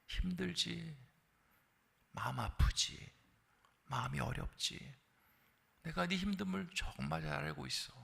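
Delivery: soft, gentle voice of God consoling; God gently consoling the weary; tender comfort. Pretend. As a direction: comfort a hurting child softly. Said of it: "뭐라고 하시냐면".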